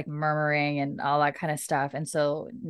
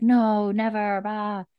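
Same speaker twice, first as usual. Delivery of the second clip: higher, louder rallying cry, half-joking; mock crowd shout; 5 semitones higher, 5 dB louder, slower than usual. Crowd of regulators answering Murtagh, mock shout. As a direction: shout it back like an eager crowd.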